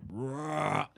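short imitated bear roar; bear growl. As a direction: growl out a bear's "rah". Imitates the bear they hear.

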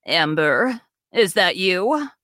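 lightly voiced old woman calling out; a hint of an old granny calling from another room; elderly woman voice. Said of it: "An elderly female voice ... calls".

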